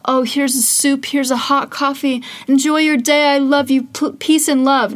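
lightly mocking sweet do-gooder voice; syrupy, sing-song kindness; sugary cheerful. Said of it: "It was not this wonderful".

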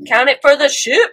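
mock cheering fan; excited fangirl. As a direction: celebrate it for the ship. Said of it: "And I was like".

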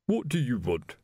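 cool, distant butler voice; coldly. A narrator's reading. Strange butler addressing Vimes at the door, cold. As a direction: freeze him out at the door. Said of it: "said the butler coldly".

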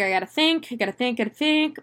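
high, quick panicky muttering; a hint of a panicked astronaut; panicky self-talk. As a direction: rush the words like he's drifting in panic. Cooper panicking in space.

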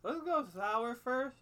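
talking around a tablet on the tongue. Real, not acted. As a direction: speak with something dissolving on your tongue. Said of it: "I sound like an idiot talking like this".

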